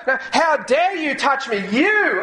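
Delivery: a hint of a harsh scolding voice; mildly mock outraged Jesus; mock angry rebuke. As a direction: pretend to snap at her, lightly. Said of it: "He didn't say that".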